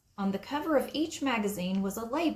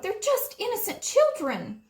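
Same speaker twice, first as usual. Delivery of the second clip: high, loud pleading; Aunt Molly protesting loudly; 12 semitones higher, 5 dB louder than usual. A narrator's reading. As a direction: beg for the children.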